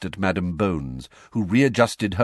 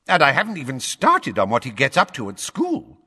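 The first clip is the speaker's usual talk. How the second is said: higher, louder official lecturing the court; pompous blustering minister; 8 semitones higher, 4 dB louder than usual. A narrator's reading. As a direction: lay down the rules like an irritated official. Fudge pressing on.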